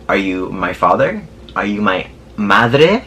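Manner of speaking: slow, drawn-out challenge, each question rising; sassy mock interrogation. Passenger to nosy Uber driver, sassy mock interrogation. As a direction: stretch out each question with attitude.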